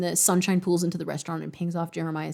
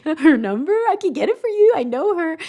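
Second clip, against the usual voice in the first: higher, louder eager voice; playful Jeremiah; 10 semitones higher, 4 dB louder than usual. Retold or imitated. Reader voicing Jeremiah offering the number, eager. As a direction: sell it with a bright eager offer.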